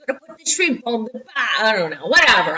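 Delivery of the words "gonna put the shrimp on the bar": halting try at an Australian accent; attempted Australian accent. Shown as a demonstration. Teacher practicing the barbie line, unsure Australian accent. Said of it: "I'll practice it".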